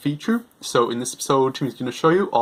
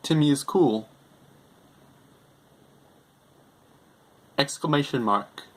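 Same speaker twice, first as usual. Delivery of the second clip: dictating; 4 dB quieter than usual. Shown as a demonstration. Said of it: "other things you can do with it".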